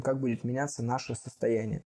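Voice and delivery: ordinary talk, nothing marked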